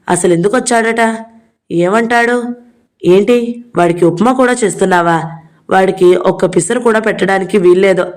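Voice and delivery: lightly acted brother fuming at his mother; flaring up. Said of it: "మండిపడ్డాడు". (కొంచెం మండిపడుతూ)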